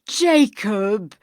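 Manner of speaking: a loud, pleading call of a name; imploring. Acted. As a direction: beg the ghost for comfort. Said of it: "he said imploringly".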